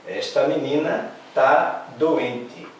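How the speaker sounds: slow, careful "Esta menina tá doente"; slow demo. Shown as a demonstration. Teacher to class, slow model sentence. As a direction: read it out slowly for the pupils.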